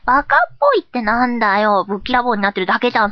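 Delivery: lightly miffed protest; mildly indignant. Acted. Silly persona objecting to an insult, mildly indignant. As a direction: object with a touch of hot-headedness.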